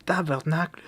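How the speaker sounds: tabernacle in a mock Quebec accent; Québécois tabernacle. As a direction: swear it like a Quebecer. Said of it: "on parle comme ça".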